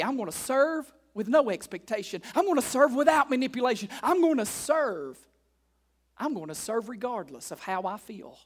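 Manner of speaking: rising resolve. Retold or imitated. Voicing a committed believer.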